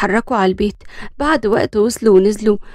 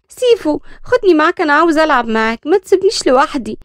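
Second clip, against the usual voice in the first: put-on higher childlike begging; little girl pleading; 5 semitones higher than usual. Little Bisan begging cousin Seif to play, childlike plea.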